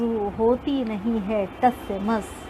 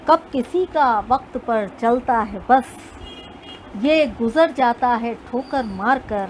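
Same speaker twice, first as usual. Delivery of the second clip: measured recital of couplets; poetry recitation. Acted. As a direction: recite like a poet on stage.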